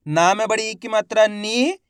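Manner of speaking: spelling out, with "नी" held long; drawn-out long vowel. Shown as a demonstration. Teacher spelling the word for learners, "नी" drawn out. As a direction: stretch the ee in "नी" at the end. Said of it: "खींच खींच के पढ़ेंगे".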